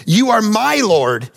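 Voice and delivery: MY drawn out in "You are my Lord"; slow emphatic reading. Real, not acted. Preacher reading the verse to the congregation, slow and emphatic. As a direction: read "You are my Lord" slowly, leaning on "my".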